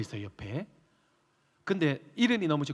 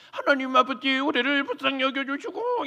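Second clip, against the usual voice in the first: high prayer with pushed-out lips; pouting prayer voice; 8 semitones higher than usual. Retold or imitated. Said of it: "입술을 쭉 내밀고 하시는 포즈".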